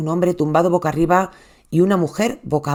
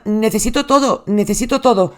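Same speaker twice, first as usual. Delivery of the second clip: panicked plea; 4 semitones higher than usual. Retold or imitated. Husband begging the 911 operator, frantic. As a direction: voice raised, frantic and pleading.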